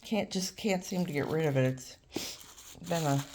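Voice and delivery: quiet, stuffy head-cold voice; sniffling with a cold. Real, not acted. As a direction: talk softly through a sniffly cold. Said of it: "I'm sorry about the sniffling. I have a cold".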